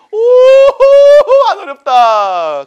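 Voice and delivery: high, very loud drawn-out whoop; exaggerated cheer. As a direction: whoop it out, stretching every word. Mock cheer that it is easy.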